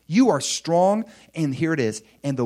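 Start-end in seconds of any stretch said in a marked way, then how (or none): 0.1-1.1 higher and louder repeat; rising affirmation; louder echo. Shown as a demonstration. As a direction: lift it up and proclaim it again. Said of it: "You are strong now".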